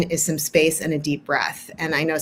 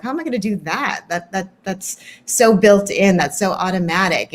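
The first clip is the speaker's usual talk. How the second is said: overwhelmed doubt. Retold or imitated. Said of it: "they feel overwhelmed".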